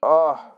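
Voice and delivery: a real sudden sneeze; sneezing. Real, not acted. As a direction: sneeze out loud. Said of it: "voy a tener que estornudar".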